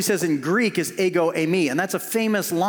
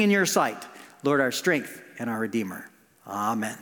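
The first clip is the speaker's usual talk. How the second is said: prayer; 2 semitones lower than usual. Acted. Pastor praying before the sermon, earnest and gentle. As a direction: pray gently over the congregation.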